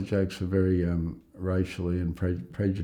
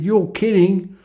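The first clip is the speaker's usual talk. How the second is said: much higher, louder disbelief; jolted upward in shock; shocked what; 12 semitones higher, 8 dB louder, slower than usual. Retold or imitated. Patient hearing bad news, shocked. Patient hears three more weeks.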